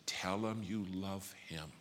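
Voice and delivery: slow, softened retold urging; gentle insistence. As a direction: quote her slowly and quietly, drawing it out. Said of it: "She said".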